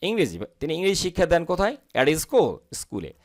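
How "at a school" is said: 'At a school' run together with a flapped d; linked native reading. Shown as a demonstration. English teacher showing how natives say 'At a school', linked together. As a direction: link 'At a school' into one word, like 'eda-school'. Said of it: "এটা হচ্ছে নেটিভদের কথা বলার ধরন".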